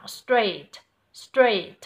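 straight with s and t run together quickly, said loud; quick st blend. Shown as a demonstration. Teacher modelling straight for the student, loud. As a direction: rush the st in straight. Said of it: "làm nhanh âm sờ thờ".

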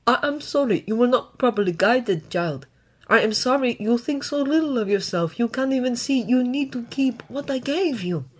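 gentle, earnest apology; sincere regret. A narrator's reading. Dragon to the child he failed to guide, sincerely sorry. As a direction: apologise kindly, without any force. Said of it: "Izuku knows he means it".

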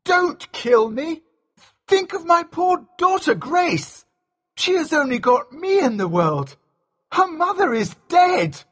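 very high, panicked begging; terrified pleading. A narrator's reading. Mascu begs Elsevier to spare him, terrified pleading. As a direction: beg for your life in a squealing high voice. Villain begs for his life.

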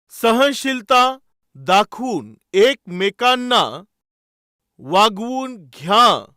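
very slow, drawn-out phrasing; deliberate preacher's emphasis at half speed; slow emphatic repetition. Real, not acted. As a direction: stretch each word to drive the verse home. Repeats verse phrase for emphasis.

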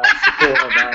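breaks into laughter mid-thanks; laughing through words. Real, not acted. Thanking supporters while co-host mocks, laughing. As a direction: let the laugh spill out loud.

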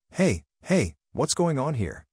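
calling out. Acted. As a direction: shout them down as you rush over. Rushing over to the workers.

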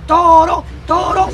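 drawn-out chanted call; bullring crowd shout. Acted. Madman showing the crowd how to cheer, shouting. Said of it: "que gritar como una plaza".

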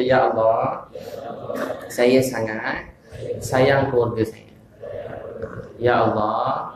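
very slow, phrase by phrase, for the crowd to repeat; call-and-response prayer for the congregation; leading a recitation. Shown as a demonstration. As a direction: spell out the prayer slowly with long pauses. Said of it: "Semua kata".

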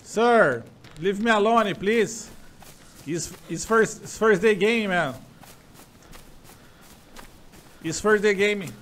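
a touch high, begging the stranger; pleading in English. Pretend. (súplica leve em inglês)

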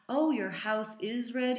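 slow, emphatic model sentence; modelling correction. Acted. Adult correcting a child's wrong word order, slow modelling. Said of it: "give 'em the right model".

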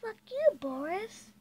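sudden high shout. Real, not acted. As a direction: yell it out suddenly. Sudden shout during play.

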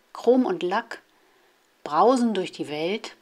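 measured poem reading, line by line; children's poem read out in separate short phrases; poem recitation. Acted. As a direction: recite short poems with a pause after each line. Reads example poems aloud.

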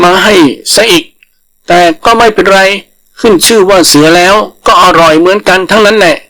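high, slow mock-hungry complaint; bluffing rabbit. Rabbit scolding the langur so the tiger panics, high and slow. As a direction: pretend to be a tiger-eating monster.

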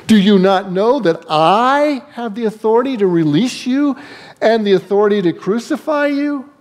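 mildly incensed, high-pitched challenge; Pilate. Acted. Incensed Pilate asserting authority over Jesus, mildly indignant. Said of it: "Pilate was incensed".

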